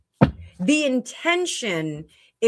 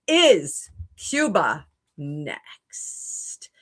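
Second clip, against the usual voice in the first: whispering; 2 semitones lower, much slower than usual. Real, not acted. Reading a viewer's question aloud.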